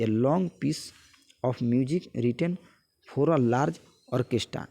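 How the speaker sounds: slow word-by-word reading of a definition; slow dictation. Acted. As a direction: read it out slowly so students can copy it down.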